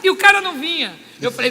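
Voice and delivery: ordinary talk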